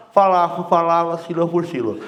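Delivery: talking round a pen held behind the canines; pen-in-mouth diction. Shown as a demonstration. Coach showing the class a diction drill, mouth obstructed by a pen. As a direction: articulate syllable by syllable past an obstruction. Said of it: "Isso vai falar".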